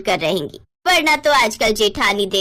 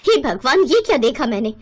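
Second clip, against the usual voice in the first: shocked gasp; 2 semitones higher than usual. Acted. Mother seeing something shocking, crying out in alarm. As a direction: cry out in alarm.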